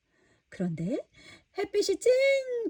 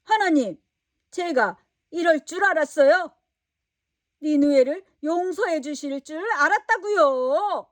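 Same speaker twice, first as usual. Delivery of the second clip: higher, louder mock-angry protest; angry complaint; 3 semitones higher, 5 dB louder than usual. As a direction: complain to God in a childish huff. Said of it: "화를 냈어요". (하나님께 높은 소리로 화내는 요나)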